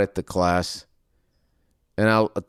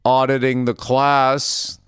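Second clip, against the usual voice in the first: slow, raised mock announcement voice; drawn-out, higher host voice; class host; 5 semitones higher, 4 dB louder, slower than usual. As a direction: imitate a host introducing newcomers. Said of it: "the person goes".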